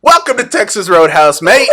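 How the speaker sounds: high, loud, hammed-up British greeting; British accent. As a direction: belt out a badly faked British accent. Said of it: "Do a British accent".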